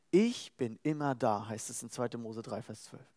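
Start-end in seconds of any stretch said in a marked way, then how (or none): 0.1-1.5 calm assurance. Acted. God's promise, quoted.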